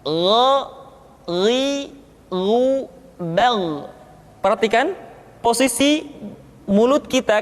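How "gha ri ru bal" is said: thick, full-mouthed gha sound; son épais. Shown as a demonstration. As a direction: pronounce gha, ri, ru, bal with a thickened throat sound. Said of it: "suara kita mesti terdengar menebal".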